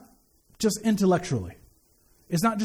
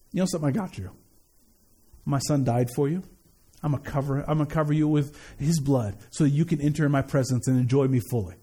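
reassuring; 6 semitones lower than usual. Acted. God answers the sinner with forgiveness, reassuring. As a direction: drop low to reassure the sinner.

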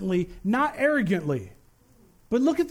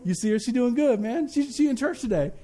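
proud daddy; 2 semitones lower than usual. Acted. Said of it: "like a newborn daddy ... boasting".

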